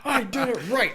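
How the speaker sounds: high and loud, are you kidding; exasperated disbelief. Retold or imitated. Man retelling his exasperation at finally succeeding. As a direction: throw it up in comic frustration.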